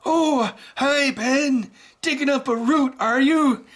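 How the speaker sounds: put-on high, sing-song elderly neighbour; sweet mock neighbour voice talking to Ben; old lady voice. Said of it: "She talks more like".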